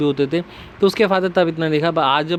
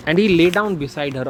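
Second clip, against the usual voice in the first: slow read; 3 semitones higher, much slower than usual. Shown as a demonstration. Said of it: "reads line slowly".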